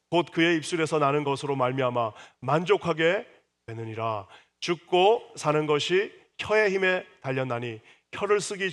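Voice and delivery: loud unison reading aloud; congregational scripture reading. Real, not acted. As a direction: read the verse together with the church. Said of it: "우리 같이 한번 읽어볼까요".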